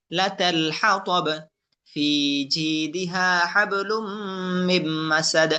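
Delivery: slow, measured tajweed chant; Quran recitation. Shown as a demonstration. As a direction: recite with drawn-out vowels. Recitation demo.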